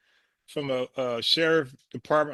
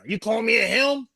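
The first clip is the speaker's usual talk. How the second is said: mocking indignant echo; 6 semitones higher, 5 dB louder than usual. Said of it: "they trying to fight anything now".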